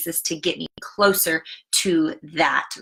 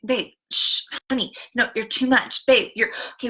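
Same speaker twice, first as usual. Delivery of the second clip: put-on slightly higher, hushing a child; 4 semitones higher than usual. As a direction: shush your daughter, a little impatient. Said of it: "that right there is me speaking death".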